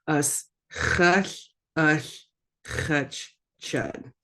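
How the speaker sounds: "Us chush, us chutch, chud" piece by piece, a gap before each; split into parts. Shown as a demonstration. Teacher repeating a big word for learners, split up. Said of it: "kinda split it a little bit".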